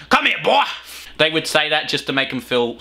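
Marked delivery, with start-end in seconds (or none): 0.1-0.6 put-on condescending old-timer. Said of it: "back then it was more like".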